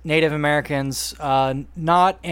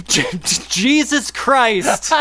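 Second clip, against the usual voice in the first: slow, grand announcement with laughter; dramatic reveal; 5 semitones higher, much slower than usual. Acted. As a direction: laugh while announcing the name.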